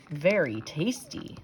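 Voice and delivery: soft, slow satisfied murmur; dog murmuring contentedly to himself. A narrator's reading. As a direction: savour it quietly to yourself. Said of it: "said Walter to himself".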